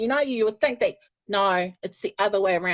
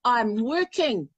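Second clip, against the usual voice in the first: laughing reply; 2 semitones higher, slower than usual. Retold or imitated. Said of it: "I'm like".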